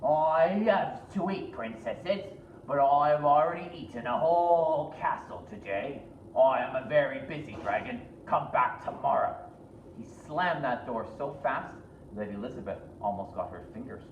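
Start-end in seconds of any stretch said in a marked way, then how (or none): 0.0-9.4 a big bragging dragon brushing her off; hammed-up dragon.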